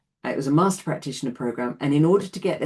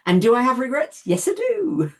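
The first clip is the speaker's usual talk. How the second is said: emphatic admission; 11 semitones higher, 6 dB louder than usual. Real, not acted. Admits her regrets emphatically.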